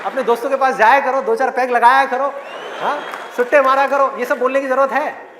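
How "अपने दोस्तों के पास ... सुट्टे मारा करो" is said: sarcastic. Acted. Sarcastic mock advice to waste time.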